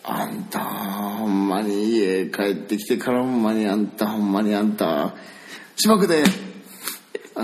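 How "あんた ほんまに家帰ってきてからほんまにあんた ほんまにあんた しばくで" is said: slow nagging ending in a sharp threat; scolding mum. Retold or imitated. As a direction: Osaka mum warning her kid. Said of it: "うちのおかんだわ". (しかるおかん)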